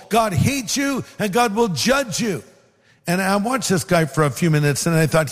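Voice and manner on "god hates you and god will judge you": higher-pitched imitation of yelling, no real volume; mild mock street-preacher yell. Street preacher yelling at passers-by, retold as a mild mock yell. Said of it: "he was yelling to the people".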